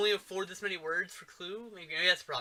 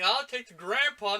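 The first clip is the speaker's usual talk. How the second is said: gruff poacher; 6 semitones higher, 7 dB louder than usual. Retold or imitated. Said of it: "he's like".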